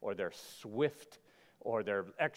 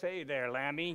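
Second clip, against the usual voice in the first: husky, raspy chain-smoker's wolf voice; 2 semitones higher, 3 dB quieter than usual. Joking that a wolf dressed as a sheep would give himself away: raspy cigarette wolf voice. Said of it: "by his raspy cigarette voice".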